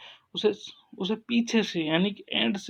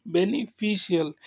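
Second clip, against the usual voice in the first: बेनिफिशियल in two parts, बेनि then फिशियल; stress on middle syllable. Shown as a demonstration. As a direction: set off फिशियल after a short gap in बेनिफिशियल. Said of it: "syllable पर stress लगाएंगे".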